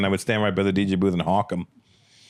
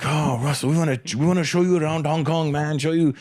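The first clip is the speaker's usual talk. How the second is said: eager restaurant hosts; 7 semitones higher than usual. Retold or imitated. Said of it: "the Indian people that ran the restaurant".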